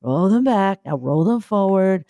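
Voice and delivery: lightly voiced soothing breathing coach; calm relaxation guide. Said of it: "I was doing the relaxing bit".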